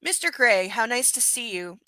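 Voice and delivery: lightly voiced sugary greeting; too sweet. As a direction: greet him with a hint of fake sweetness. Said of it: "I smile far too sweetly".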